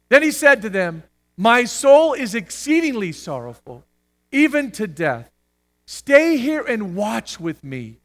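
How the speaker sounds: measured, solemn reading aloud; scripture reading. A narrator's reading. Preacher reads the Gethsemane passage to the church, scripture reading. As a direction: read it out to a standing congregation.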